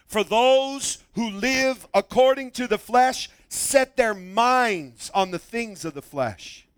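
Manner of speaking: deliberate phrases, key words leaned on; emphatic scripture reading. Real, not acted. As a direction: read the verse so they really listen. Reads scripture aloud with emphasis.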